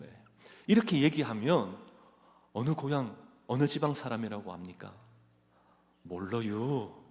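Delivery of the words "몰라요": drawling Chungcheong dialect accent. Showing how a regional speaker sounds: slow Chungcheong accent. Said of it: "이러면 아, 충청도구나".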